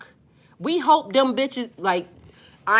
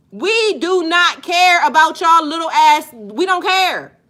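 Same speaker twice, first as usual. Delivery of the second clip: slow, louder, spaced-out defiance; defiant dismissal; 4 semitones higher, 5 dB louder, slower than usual. Real, not acted. Host telling men off, slow and louder. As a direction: drag it out so they know you mean it.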